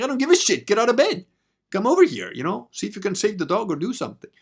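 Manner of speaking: high, loud mock yelling; demanding shout. Narrator ordering the vet out of bed, loud shouting. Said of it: "I'm like".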